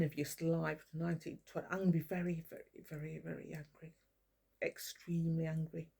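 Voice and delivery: a cold, hushed warning; quiet menace. Real, not acted. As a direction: let the threat sink to almost nothing. Quiet threat to Lee.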